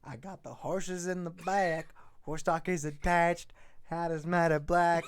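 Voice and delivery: low, soft unvoiced whisper. Player whispers cowboy lines to stall the reading. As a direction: whisper the brag under your breath.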